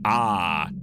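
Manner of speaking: token low-pitched "ah" for a scream; held-back scream. Pretend. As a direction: fake a scream without screaming. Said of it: "I'm not gonna scream into the mic".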